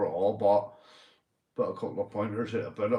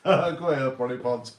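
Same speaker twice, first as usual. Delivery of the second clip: excited call; 4 semitones higher, 5 dB louder than usual. Real, not acted. Calling out to a chat user.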